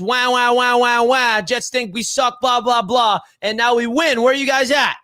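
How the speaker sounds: mock whiny chat voice. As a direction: tease the complaining fans. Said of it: "all I saw in the chat".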